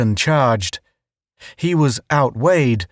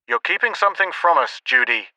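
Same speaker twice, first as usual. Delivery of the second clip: suspicious; 4 semitones higher, faster than usual. A narrator's reading. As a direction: press Judy for truth. Dan suspicious on radio.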